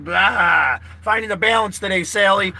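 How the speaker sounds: half-laughing outburst of frustration; sudden shout. Real, not acted. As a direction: let the stress burst out loud. Venting stress, calling out to Sally.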